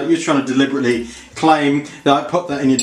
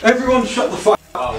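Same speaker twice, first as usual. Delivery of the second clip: much higher, snapping at the whole table; angry outburst; 9 semitones higher than usual. Acted. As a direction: yell the room into silence. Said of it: "he doesn't take it too well".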